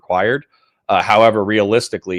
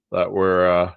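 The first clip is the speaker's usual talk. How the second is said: yawning; 3 semitones lower than usual. Real, not acted. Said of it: "sorry for yawning in your ear".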